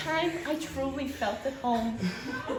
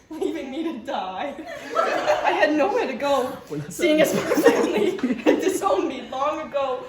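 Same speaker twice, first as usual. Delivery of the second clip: melodramático. Acted. Performs a dramatic soup-chef monologue.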